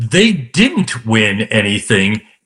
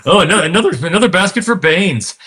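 put-on old-timey radio voice; 5 semitones higher than usual. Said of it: "old-timer, like".

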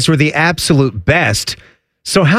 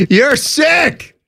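laughing; 11 semitones higher than usual. Real, not acted. Teasing the co-host through laughter, high laughing shout. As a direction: call him sick through laughter.

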